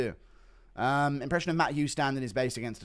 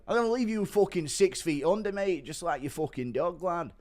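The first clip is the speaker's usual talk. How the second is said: Bully Tom impression; 4 semitones higher than usual. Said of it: "Impression of Bully Tom".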